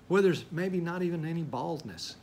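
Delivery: ordinary talk, nothing marked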